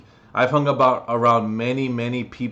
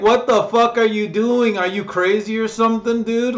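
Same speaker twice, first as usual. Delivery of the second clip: shocked stranger; 10 semitones higher, 5 dB louder than usual. Retold or imitated. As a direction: play the freaked-out passenger. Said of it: "at first they're like".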